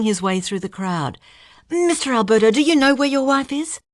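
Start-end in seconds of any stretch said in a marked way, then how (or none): 1.7-3.8 loud, high insistent questioning; pushy reporter. A narrator's reading. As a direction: press him hard, loudly.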